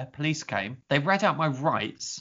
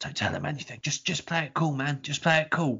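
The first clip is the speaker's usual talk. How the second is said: whispered delivery. Retelling a friend's words whispered into an ear: imitating a whisper. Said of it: "Whispering into my ear".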